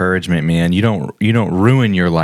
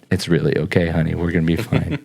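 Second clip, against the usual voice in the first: reassuring; 3 semitones lower, 3 dB quieter, faster than usual. Retold or imitated. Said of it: "I looked back at her and I said".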